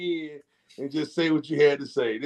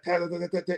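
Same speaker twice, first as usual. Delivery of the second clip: mock snare drum; 2 semitones higher, 6 dB quieter, much faster than usual. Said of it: "he was playing the snare drums".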